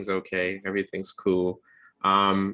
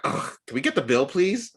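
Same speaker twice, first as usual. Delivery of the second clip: fed-up date; 10 semitones higher than usual. Retold or imitated. Date voiced wanting to leave.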